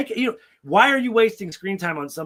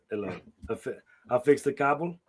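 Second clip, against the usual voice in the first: lightly voiced European cable guy; mock foreign accent for a porn handyman; a hint of a Big Lebowski-style European accent; European stud accent; 3 dB quieter than usual. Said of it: "I'm just thinking Big Lebowski".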